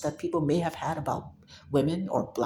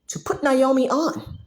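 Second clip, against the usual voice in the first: loud demand; 8 semitones higher, 4 dB louder than usual. Acted. God voiced commanding friends.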